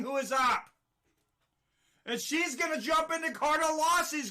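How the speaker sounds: live fight call, quick and punchy; play-by-play commentary. Acted. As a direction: call the action as it happens.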